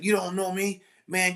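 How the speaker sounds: student defying the teacher, high indignant voice; defiant student. Retold or imitated. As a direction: imitate a defiant teen. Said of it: "He was like".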